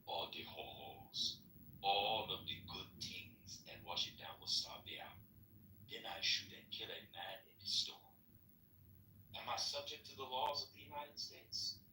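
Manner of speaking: lightly put-on African accent. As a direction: play the hypothetical in an African accent. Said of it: "Stop doing the African accent".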